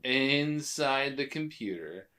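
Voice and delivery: slow, stretched-out mock line reading; drawn-out movie quote. Host finishing the quote from the files scene, drawn out. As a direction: stretch the words out slowly, imitating the film.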